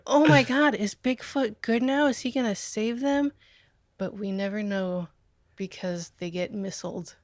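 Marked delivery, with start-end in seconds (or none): 0.1-3.3 hammed-up hopeful amazement; imitated amazed audience. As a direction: play a gasping audience, then settle. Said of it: "the audience is".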